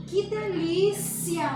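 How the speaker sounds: slow, savoring "Que delícia"; drawn-out delight over the cake; delighted exclamation. Shown as a demonstration. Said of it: "Ponto de exclamação".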